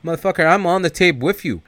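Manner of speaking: high-pitched acted comeback; retold angry retort. Kane arguing with O-Dog over the tape, angry.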